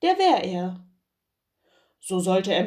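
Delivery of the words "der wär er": Bauer. Acted. Bauer antwortet dem Herrn.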